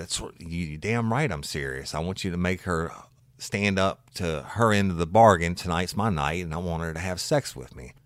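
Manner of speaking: mock outraged husband insisting; indignant husband. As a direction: hammer the demand home. Husband angrily insists on bargain.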